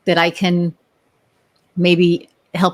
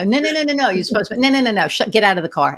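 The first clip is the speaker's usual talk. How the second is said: bossy backseat driver; 4 semitones higher, faster than usual. Pretend. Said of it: "the backseat drivers".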